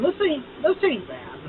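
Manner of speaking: talking into drink can; speaking with can at lips. Real, not acted. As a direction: voice slightly blocked by can. Seen 0: Can held directly in front of mouth while speaking, then drinks.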